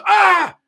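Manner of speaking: high, loud cowboy-movie death yell; hammed-up yelp of a kid who has been shot; reenacted scream of falling from a tree; pained cry. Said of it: "He goes".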